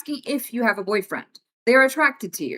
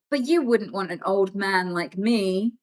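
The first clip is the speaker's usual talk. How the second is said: put-on creepy old man; 4 semitones lower, slower than usual. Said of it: "And then they go".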